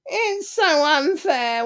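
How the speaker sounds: high, slow whine on so; whiny victim. Retold or imitated. Speaker voicing the victim, first take, slow whine. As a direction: draw out so unfair in self-pity. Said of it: "The victim's voice sounds like".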